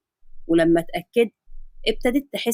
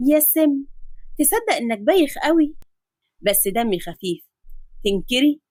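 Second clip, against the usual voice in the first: put-on teasing girl; 3 semitones higher than usual. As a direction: tease him for being unfunny. Nafisa teases Omar.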